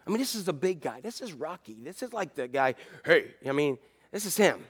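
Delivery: hushed awe. Real, not acted. Awe at broken Peter.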